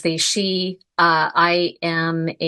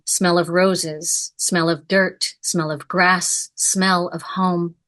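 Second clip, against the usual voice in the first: poem reading. Acted. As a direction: let each remembered image land, unhurried. Reads the poem Fig aloud.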